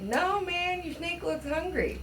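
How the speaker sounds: mock nervous refusal. Refusing to touch snake.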